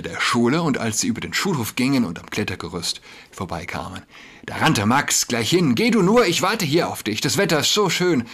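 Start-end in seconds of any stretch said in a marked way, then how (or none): 5.7-8.3 high, loud eager call across the schoolyard. A narrator's reading. Max calls to Jakob from the climbing frame, loud and eager. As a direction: shout it out, keen to go play. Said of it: "rief er".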